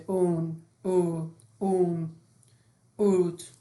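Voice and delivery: "اون، او، اون، اوت" each opening on long او; initial OW as او. Shown as a demonstration. Teacher drilling word-initial OW, each said as او. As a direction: model "اون، او، اون، اوت" one by one with او. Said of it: "به اندازهٔ او تلفظ کنیم".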